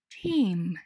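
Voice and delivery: チーム said as English "team", one syllable with a long ee; チーム in native English, not katakana; English pronunciation. Shown as a demonstration. Teacher models English team. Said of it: "チームは英語で".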